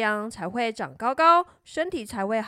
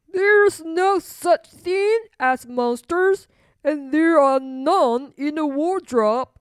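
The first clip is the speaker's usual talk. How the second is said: raised, emphatic reassurance; firm king father; 3 semitones higher, 5 dB louder, slower than usual. Acted. King telling princess monsters don't exist, emphatically. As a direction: dismiss the fear loudly and firmly.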